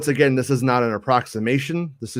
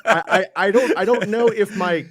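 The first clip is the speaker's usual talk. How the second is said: talking through laughter; laughing; 8 semitones higher, 4 dB louder than usual. Real, not acted. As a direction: laugh while getting the words out. Laughing after convoy joke.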